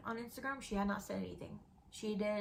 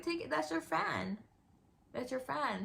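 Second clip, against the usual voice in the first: imitating mom; 3 semitones higher than usual. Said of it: "She's like".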